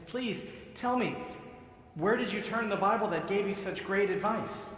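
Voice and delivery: lightly voiced eager rabbi, pitch up; excited rabbi. Rabbi eagerly pressing the man for his secret, mild excitement. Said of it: "The rabbi's so excited".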